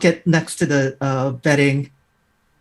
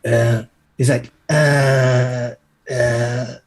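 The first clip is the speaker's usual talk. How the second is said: zombie groans; 4 semitones lower, much slower than usual. Acted. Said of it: "Are you basically just doing zombie noises".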